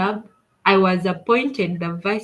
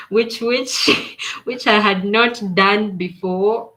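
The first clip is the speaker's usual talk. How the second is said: laughing; 4 dB louder, slower than usual. Real, not acted. Laughing at nervous memory.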